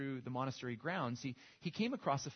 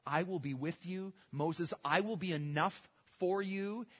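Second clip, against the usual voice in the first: God's proclamation; 2 semitones higher than usual. Acted. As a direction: proclaim each I am with lift. Voices God naming himself.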